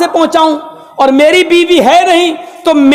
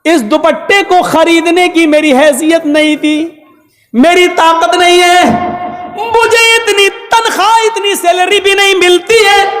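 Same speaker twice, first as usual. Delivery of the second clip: husband questioning wife; 4 semitones higher than usual. Acted. Umar questions wife about scarf.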